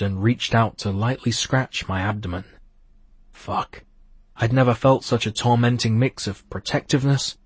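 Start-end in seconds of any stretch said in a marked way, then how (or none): 3.3-3.8 breathy whisper. Acted. His inner reaction to her.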